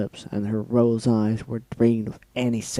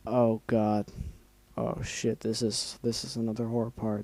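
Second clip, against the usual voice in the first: dreading; 5 dB quieter than usual. Real, not acted. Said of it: "Embrace yourselves".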